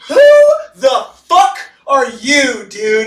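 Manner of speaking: high, slow shouted challenge; hammed-up angry cop shouting; mock cop yell. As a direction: bark it like a startled cop. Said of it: "the L A P D pops out and goes".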